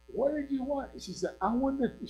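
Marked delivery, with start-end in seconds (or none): 0.1-0.9 imitated yell. Lady on porch hollering at girl, high mock yell. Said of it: "from the porch to the road, saying". 1.4-2.1 high, strained call toward the porch; mock yell back. Girl yelling back to lady on porch, high mock yell. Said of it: "so I just yelled back at her".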